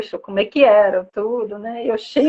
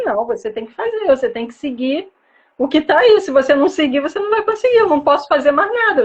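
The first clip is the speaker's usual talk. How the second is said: higher, fast mock lecture; imitating a stern nutritionist; 4 semitones higher, faster than usual. Retelling how a past nutritionist scolded her, mock stern and fast. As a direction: rattle off the scolding like an impatient expert. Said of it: "chegava lá e falava assim".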